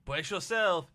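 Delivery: put-on high French-accented build-up; high character voice. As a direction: announce it high, stretching the end. Voices French slime game character.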